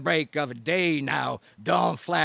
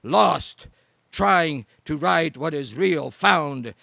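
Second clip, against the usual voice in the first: rousing declamation; 3 semitones higher, 3 dB louder than usual. Acted. Poet rallying the audience at the climax, loud declaiming. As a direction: whip the crowd up, line after line. Slam poem rising to climax.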